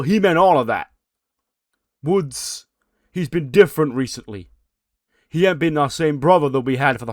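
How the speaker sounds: loud, high, heated shouting; imitating a furious friend blowing up; yelling at a friend. Big E confronts Kofi, shouting.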